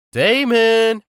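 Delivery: high, loud screech across the building; screeching yell. A narrator's reading. Best friend bursting in with a screeching shout. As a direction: shriek his name at full volume. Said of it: "the screeching voice that thundered".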